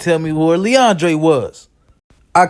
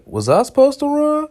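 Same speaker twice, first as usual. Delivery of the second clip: confused; 10 semitones higher than usual. Retold or imitated. Confused question to himself.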